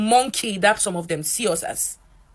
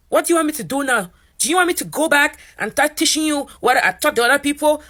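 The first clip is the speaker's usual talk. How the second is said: raised, louder, scornful professor voice; mocking professor; 7 semitones higher, 4 dB louder than usual. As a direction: throw the question back at the student with disdain. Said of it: "She was like".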